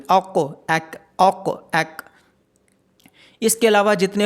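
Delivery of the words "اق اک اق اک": اق thick from the back, اک thin; letter sound drill. Shown as a demonstration. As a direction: contrast heavy ق and light ک. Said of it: "قوف کو موٹا پڑھا جائے گا اور کیف کو باریک".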